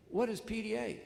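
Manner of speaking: high, startled asking what it means; a father caught off guard, asking sharply; surprised question. Retold or imitated. Father to principal, asking in high surprise.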